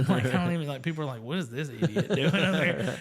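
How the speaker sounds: laughing as he imagines it. Real, not acted. Laughing at himself in front of friends. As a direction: giggle through the mock quote.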